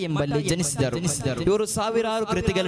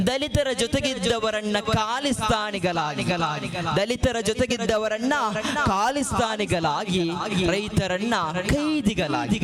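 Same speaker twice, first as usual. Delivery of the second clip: declaimed protest poem with long-drawn vowels; poem recitation; 3 semitones higher than usual. Acted. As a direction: recite in measured, repeated phrases, stretching key syllables.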